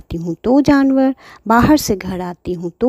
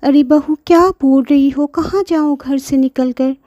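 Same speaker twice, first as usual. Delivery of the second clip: put-on higher, pleading old granny voice; grandmother pleading; 5 semitones higher than usual. Grandma pleads with daughter-in-law, higher pleading voice. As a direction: beg gently like a hurt grandmother. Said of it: "Pinky की दादी".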